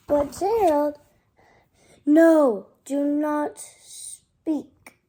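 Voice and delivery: sharp loud "no" as a character; child calling out a character's plea; urgent plea. Acted. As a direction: cry out no to Gerald. Child voicing character pleading.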